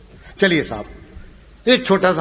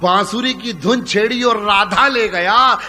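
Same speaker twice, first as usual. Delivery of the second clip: slow, louder opening verse; poem recitation; 3 semitones higher, 4 dB louder than usual. Acted. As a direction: declaim the couplet to the crowd. Repeat recitation.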